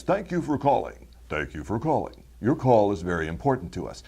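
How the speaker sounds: polished phone-menu announcer read; smooth corporate announcer, too perfect to be real. Shown as a demonstration. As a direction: sound like a perfect automated greeting. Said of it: "talks like this and says".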